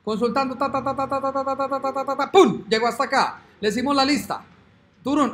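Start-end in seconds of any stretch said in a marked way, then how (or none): 0.5-2.3 loading hum. Pretend. Waiting for app to load. 2.3-2.6 a loud, higher pum like a little blast; mock explosion. Programmer voicing the result landing on screen, a loud mock boom.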